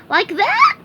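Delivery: high, loud strained squeak; pained. A narrator's reading. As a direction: sound strained from stretching. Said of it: "he asked in a pained voice".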